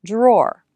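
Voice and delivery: "drawer" lengthened and said clearly; longer clearer drawer. Shown as a demonstration. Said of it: "longer and clearer".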